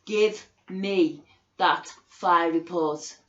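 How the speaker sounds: loud, slow, furious demand; slow, loud order at the council; angry demand. Real, not acted. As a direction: hammer out each word at them. Demanding the fire report from council.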